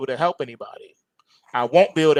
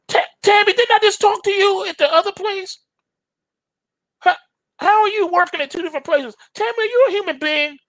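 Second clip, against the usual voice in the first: exasperated caller. Pretend. Caller confronts the AI.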